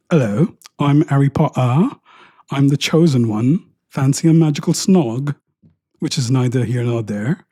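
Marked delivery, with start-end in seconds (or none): 0.1-5.3 mock British accent. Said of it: "I would do my accent".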